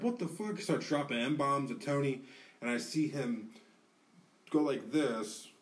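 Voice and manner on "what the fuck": high-pitched startled protest, acted out; imitated alarmed outburst. Retelling the dude's reaction to a razor threat, alarmed. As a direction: mimic shocked disbelief, voice jumping up.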